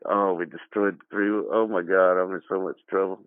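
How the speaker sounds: put-on scared kid. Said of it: "And I was like".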